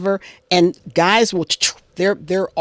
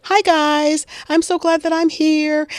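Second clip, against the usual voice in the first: higher voice, every phrase lifting up like a question; uptalk imitation; 10 semitones higher than usual. Crafting YouTuber greeting viewers, mocked with rising uptalk. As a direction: mimic an eager YouTuber seeking approval. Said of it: "even with their voice intonation going up".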